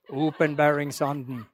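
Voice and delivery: slow imitation of Stril dialect with American accent. Fondly recalling a missionary's word, slow Stril-American accent. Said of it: "sånn amerikansk aksent på".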